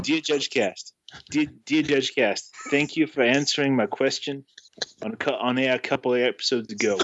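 halting, badly faked Boston accent; shaky attempt at Boston accent. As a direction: read the letter in a struggling Boston accent. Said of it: "having a hard time with the Boston accent".

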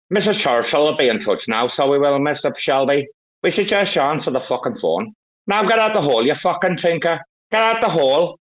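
high-pitched gangster character voice; mock menacing character act; Mister Shelby. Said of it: "do you want Mister Shelby".

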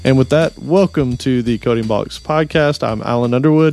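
steady announcer read over music; podcast intro read. Acted. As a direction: deliver the sign-up info like a radio plug. Reads the show intro.

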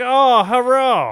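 high, slow mock Asian accent. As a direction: stretch it out in a hammy Asian accent. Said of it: "he's doing, like, the Asian accent".

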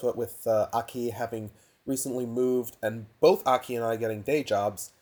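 tinny laptop microphone; recorded on a cheap laptop mic. Real, not acted. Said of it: "so sorry for the laptop mic".

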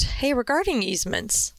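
ordinary talk

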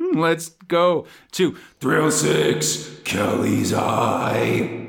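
slow, drawn-out bingo call; bingo caller. Pretend. Announcing next strip, drawn out.

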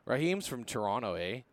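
a light mock Canadian accent; lightly joking Canadian lilt. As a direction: tease him with a hint of Canadian accent. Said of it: "That's a pretty good accent you've got".

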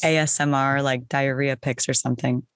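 lightly voiced sultry ASMR narrator; sexy groovy voice. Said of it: "the sexy groovy voice".

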